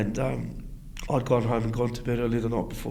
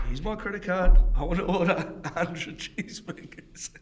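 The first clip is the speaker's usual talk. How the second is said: insistent demand; 7 semitones higher, slower than usual. Retold or imitated. Mate insists at Macca's counter.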